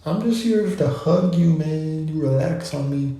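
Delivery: lightly voiced comforting couch; friendly couch voice. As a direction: coax someone to sit and relax. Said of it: "It's like".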